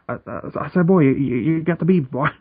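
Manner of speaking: lightly blustering Southern rooster; stammering cartoon Southerner impression; Foghorn Leghorn. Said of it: "Fucking Froghorn Leghorn".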